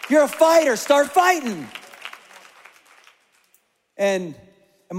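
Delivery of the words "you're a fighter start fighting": loud, higher preaching with a falling tag on each answer; full force preaching. Acted. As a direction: hammer the answer home like a preacher. Preaching refrain.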